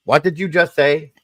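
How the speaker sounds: mock disbelief, pitch up; startled husband asking his wife to repeat herself; incredulous. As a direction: ask it as if you misheard her. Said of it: "And I went".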